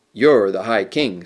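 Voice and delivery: a stern reminder of his rank, slowly. Acted. Trumpkin sternly reminding Peter he must decide. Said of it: "said Trumpkin sternly".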